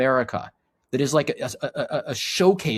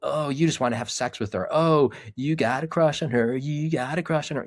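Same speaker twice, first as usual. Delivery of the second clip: mock teasing; 4 semitones higher than usual. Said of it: "there's this low level teasing".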